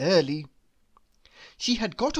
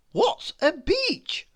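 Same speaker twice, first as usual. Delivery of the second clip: curious worm voice; 12 semitones higher, slower than usual. A narrator's reading. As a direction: ask like an eager little worm. Worm asks again.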